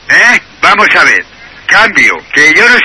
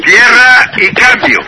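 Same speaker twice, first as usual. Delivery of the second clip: laughing; slower than usual. Real, not acted. Repeats the words while laughing.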